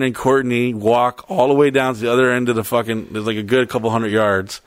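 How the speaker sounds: usual speaking voice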